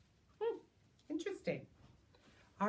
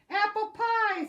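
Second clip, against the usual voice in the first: eager order; 10 semitones higher, 7 dB louder than usual. Acted. Pangolin orders.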